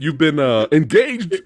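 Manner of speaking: mock-indignant British father; over-the-top British. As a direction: protest in a hammed-up British accent. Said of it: "super overly British".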